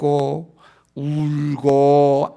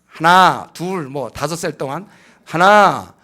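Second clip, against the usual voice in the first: slow, louder counting as a parent; a lightly voiced parent counting to the child; mock parent counting; 6 dB louder, slower than usual. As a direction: drag out the count like a parent who never acts. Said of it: "막 계속해".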